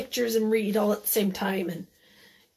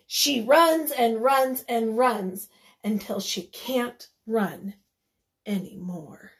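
dramatic story reading; 4 dB louder, slower than usual. A narrator's reading. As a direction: start energetic, then run out of steam. Reads the running to children.

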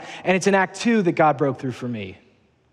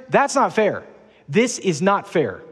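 whiny complaint; 2 semitones higher than usual. Retold or imitated. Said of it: "Can't you just hear him?".

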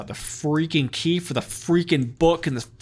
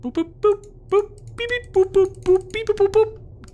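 high beeping robot chatter; 4 dB louder than usual. Pretend. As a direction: beep and boop like a little machine. Beeping robot noises at dentist.

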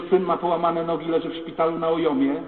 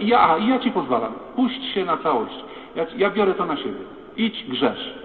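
provoking challenge. Acted. Priest provoking the sinner.

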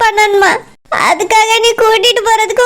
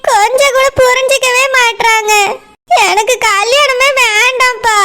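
crying. Acted. Daughter pleads with father, weeping.

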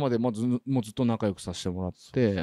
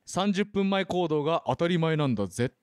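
slow, deliberate mock proclamation; one-line pronouncement; 3 semitones higher than usual. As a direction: deliver it slowly like a punchline motto. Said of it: "一言だけ言いますけど、".

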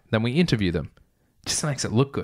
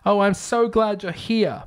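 woman yelling; 10 semitones higher than usual. Retold or imitated. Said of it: "a woman's voice yelled".

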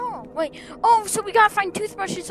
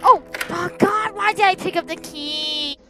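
scared horror game streamer; 3 dB louder than usual. Real, not acted. Chased after taking key.

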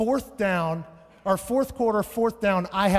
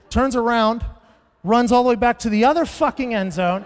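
louder, rising disbelief as he retells it; mounting outrage; 4 semitones higher, 6 dB louder than usual. Retold or imitated. Comic telling the crowd, growing louder and more incredulous. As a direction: pile on the outrage with each run back.

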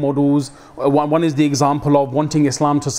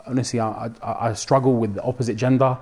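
upset confession; 4 semitones lower, 5 dB quieter than usual. Retold or imitated. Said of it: "he was really upset and he was crying".

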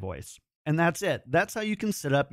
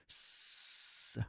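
held S; 10 dB quieter than usual. Shown as a demonstration. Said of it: "hold this and bring in my S's".

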